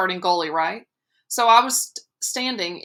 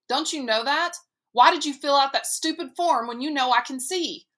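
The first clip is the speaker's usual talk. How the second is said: protesting; 6 semitones higher than usual. A narrator's reading. Boy protesting to mother.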